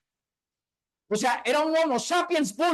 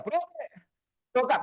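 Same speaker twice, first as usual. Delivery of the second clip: mock nagging colleague; much slower than usual. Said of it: "que me dijeran".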